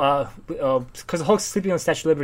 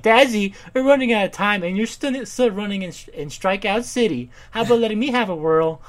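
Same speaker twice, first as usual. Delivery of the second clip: put-on high, loud, whiny girl voice; mock spoiled daughter; pleading rich daughter; 6 semitones higher, 6 dB louder than usual. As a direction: beg Daddy, hammed up. Voicing daughter character.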